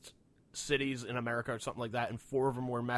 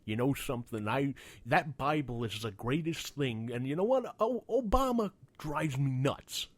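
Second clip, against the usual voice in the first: mock rant by a rock musician. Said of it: "talking, like".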